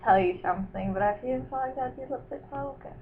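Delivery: put-on hushed, mannered British accent; British accent that could pass for Irish or Scottish. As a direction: speak in a muddled, soft-spoken British accent. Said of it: "going with the British accent, are we?".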